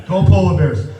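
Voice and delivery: mock cheer.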